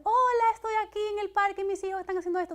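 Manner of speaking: high, loud chirpy influencer greeting; bright mock influencer showing off the kids' day at the park. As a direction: perform it like an upbeat social media influencer. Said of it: "ves a aquel influencer diciendo".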